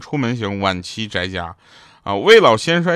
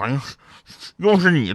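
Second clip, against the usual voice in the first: mock-muffled as behind a hand, higher; 4 semitones higher than usual. Retelling what a brother-in-law said beside them, imitating talking behind a hand. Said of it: "手捂着嘴啊，捂着嘴说".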